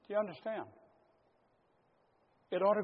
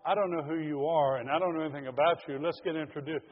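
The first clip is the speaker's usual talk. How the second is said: casual small talk; 4 dB louder, faster than usual. Pretend. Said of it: "It's not like".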